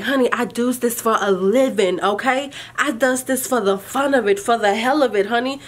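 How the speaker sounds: mock-sassy 'honey', pitched a bit up; lightly playing the diva who does this for a living; teasing confidence, half-playful; sassy brag. Sassy retelling to the tester.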